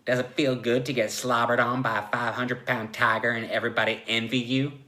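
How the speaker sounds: lightly voiced cocky tiger; tiger-man taunt. Tiger Joe teases the pinned therapist, lightly taunting.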